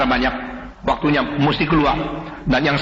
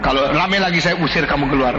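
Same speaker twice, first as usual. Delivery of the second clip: stern threat; 3 semitones lower than usual. Retold or imitated. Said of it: "Dia keras sekali".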